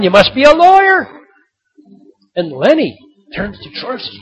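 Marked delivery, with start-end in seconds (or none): 0.0-1.3 high, loud sarcastic shout; yelling back. Retold or imitated. George shouting a jab down to the man, loud. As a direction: fling the jab down at him. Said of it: "George yells back at the man".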